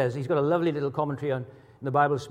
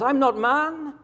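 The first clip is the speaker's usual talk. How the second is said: high-pitched, emphatic proclamation as God; God declaring; 9 semitones higher, 5 dB louder than usual. Retold or imitated. Preacher voicing the Holy One among his people, high and emphatic. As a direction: declare it with a preacher's full conviction. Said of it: "he says".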